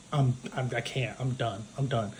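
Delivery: a bride quietly done with her fiance, understated and deflated; mock defeated. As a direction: let it drop away as if giving up. Bride overwhelmed, giving up.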